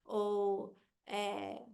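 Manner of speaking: "Spring" as one robotic beat; low, even robot delivery of "Spring". Shown as a demonstration. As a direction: say SPRING like a robot counting syllables. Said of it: "você fala igual robô".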